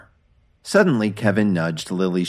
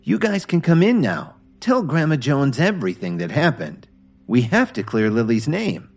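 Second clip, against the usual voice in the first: shout toward the door; 6 semitones higher than usual. Acted. Brittany calls the engineers in from the door, shouting. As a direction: call them in from the next room. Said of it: "shouted towards the door".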